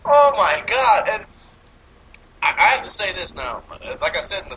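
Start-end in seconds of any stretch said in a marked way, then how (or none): 0.0-1.1 loud, slow laughing exclamation; loud disbelief. Real, not acted. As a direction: blurt it out laughing.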